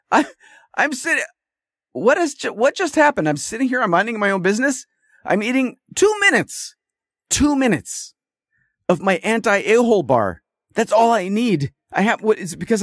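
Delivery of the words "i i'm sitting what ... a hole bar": high, incredulous rant about his break; pitched up in disbelief, rattling it off; as if wronged for a tiny snack break; exasperated disbelief. Retold or imitated. Exasperated retelling of own reaction.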